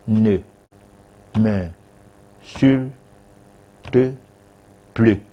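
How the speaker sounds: syllable by syllable, long pauses between; slow, deliberate articulation. Shown as a demonstration. Advisor shows a stutterer how to answer an insult, very slowly. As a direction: take your time over each separate syllable. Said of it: "tu prends du temps pour lui dire ça".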